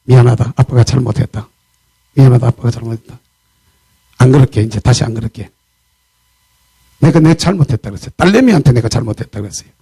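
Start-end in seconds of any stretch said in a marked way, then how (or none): 0.0-5.5 humble apology. Retold or imitated. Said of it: "제가 바로 꼬리 내렸어요".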